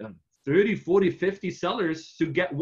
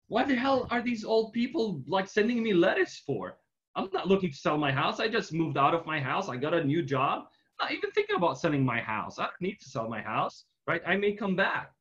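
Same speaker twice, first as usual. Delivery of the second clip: annoyed homeowner; 3 semitones higher than usual. Retold or imitated. Homeowner annoyed by seller letters.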